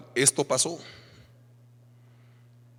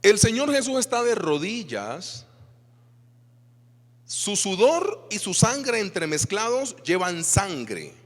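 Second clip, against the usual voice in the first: slow, raised, dramatic; solemn slow; 6 semitones higher, slower than usual. Acted. Preacher describing Jesus praying on his knees, slow and solemn. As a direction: paint the agony word by word.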